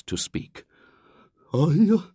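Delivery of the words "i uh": slow, theatrical storyteller tremble; dramatic quivering voice. A narrator's reading. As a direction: spin a spooky tale with gravity. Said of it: "in a low, quivering voice".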